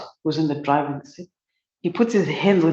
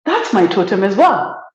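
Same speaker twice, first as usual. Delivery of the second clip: excited exclamation; 2 semitones higher, 5 dB louder than usual. Retold or imitated. Man discovers they share a totem, delighted loud exclamation. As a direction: burst out in happy surprise. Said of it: "He's like".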